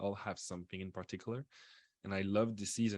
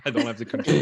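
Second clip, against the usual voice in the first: loud real laughter spilling into the words; laughing; 4 semitones higher, 16 dB louder than usual. Real, not acted. Host laughing that he can't mute the guest. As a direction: laugh it out, helpless with amusement.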